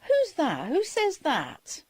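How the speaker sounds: mock startled cry of who's that; startled question. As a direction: recreate her alarm at the strange voice. Cousin startled by voice on tape.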